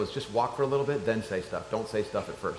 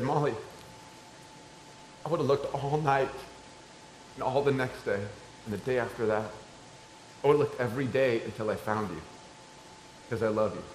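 softer, earnest fatherly voice; tender reassurance; 3 semitones lower, 9 dB quieter than usual. Retold or imitated. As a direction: gently promise a child you'd never give up. Father assures daughter of love.

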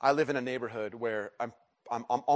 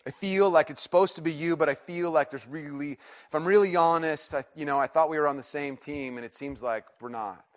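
louder, pleading prayer that eases down; frustrated honesty; 4 semitones higher, 4 dB louder than usual. Acted. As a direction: protest to Jesus, then give in. Acts out frank prayer to Jesus.

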